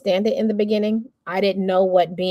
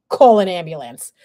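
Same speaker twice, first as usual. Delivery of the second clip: louder, desperate call for help; urgent plea; 6 dB louder than usual. Retold or imitated. Panicking daughter to her mom at the door, urgent and loud. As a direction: blurt it out like you can't breathe. Panicked demand on arriving home.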